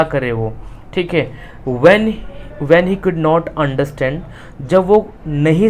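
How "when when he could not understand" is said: slow, careful reading for students; slow reading aloud. Shown as a demonstration. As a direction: read it out carefully for the class. Teacher reads textbook line. (धीरे-धीरे पढ़ना)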